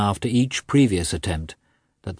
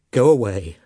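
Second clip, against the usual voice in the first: shrill outburst, rising and louder; shrill cry; 5 semitones higher, 5 dB louder than usual. A narrator's reading. Wife orders husband out, shrill cry. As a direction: cry it out, second command much higher. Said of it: "she cried in a still shriller voice".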